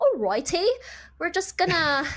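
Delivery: put-on failed, botched stab at an Australian accent. Imitating a team's reaction during match commentary: failed australian accent. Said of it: "that was not an Australian accent".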